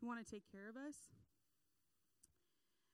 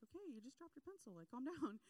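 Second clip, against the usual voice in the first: amused disbelief; 3 semitones higher, faster than usual. Retold or imitated. Helper answers the outburst, laughing.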